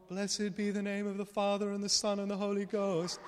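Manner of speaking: a hint of a priest intoning, slowed right down; liturgical intoning. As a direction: lightly imitate a chaplain reading the liturgy. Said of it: "he starts doing the whole".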